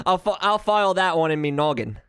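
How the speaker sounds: playful put-on British accent; mock British accent. Streamer filing away the accent tip, in playful mock British. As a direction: repeat it as a jokey Brit. Jokey accent repeat of plain remark.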